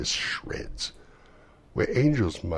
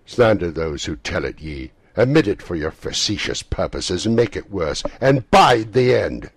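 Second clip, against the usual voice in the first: grave spirit; 3 semitones higher, 10 dB louder than usual. Acted. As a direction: pronounce it gravely. Spirit's bitter warning.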